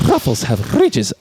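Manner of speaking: lightly put-on slow slogan delivery. Quoting a chip ad to a co-host, mock slogan delivery. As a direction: draw it out like an ad slogan. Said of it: "That's the whole ad campaign".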